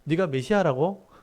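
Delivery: acted mocking query; sarcastic disbelief. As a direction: scoff at his claim, ending on a rise. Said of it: "비꼬듯이 말하는 거죠".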